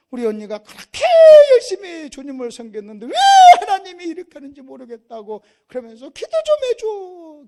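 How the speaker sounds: loud wailing plea, hammed up; retold desperate begging, building to a high cry; imitating an anguished aunt. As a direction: cry out in protest as the aunt, voice climbing. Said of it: "나보러 뭐라고 그러는지 아십니까".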